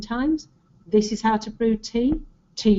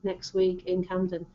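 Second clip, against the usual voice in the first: dull; 3 semitones lower, 6 dB quieter than usual. Shown as a demonstration. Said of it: "not just".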